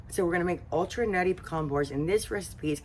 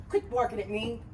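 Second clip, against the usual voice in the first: higher, half-annoyed call to the dog; scolding the dog; 7 semitones higher than usual. Real, not acted. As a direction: tell the dog off, not harshly.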